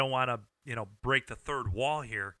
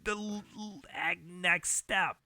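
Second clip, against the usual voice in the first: put-on southern accent; 4 semitones higher than usual. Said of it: "the guy's name with the southern voice".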